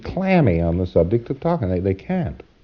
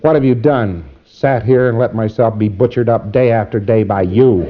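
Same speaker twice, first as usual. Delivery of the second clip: louder, aggrieved client reply; acted aggrieved client; bitter complaint; 5 dB louder than usual.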